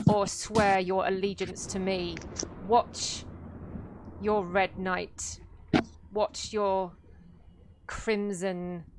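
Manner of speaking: measured, mildly gruff villain speech with heavy pauses; gruff male conqueror. Acted. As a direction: lay down an ultimatum as a gruff warlord. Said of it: "a quite gruff male voice".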